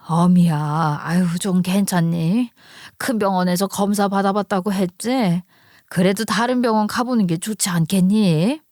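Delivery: lightly voiced mother-in-law checking on her daughter-in-law; concerned mother-in-law. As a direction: ask with an elder's mild concern. (살짝 연기한 걱정하는 시어머니)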